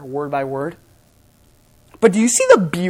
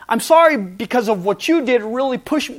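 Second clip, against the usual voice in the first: wrong kind of apology; 3 semitones higher than usual. Shown as a demonstration. Preacher shows his wife and kids the apology not to give, defensive. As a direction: say sorry while pushing the blame back.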